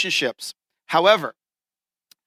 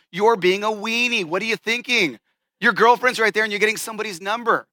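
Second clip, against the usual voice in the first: higher-pitched, incredulous telling-off; mock scolding; 4 semitones higher than usual. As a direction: scold a friend who should know better. Imagined scolding of the buddy.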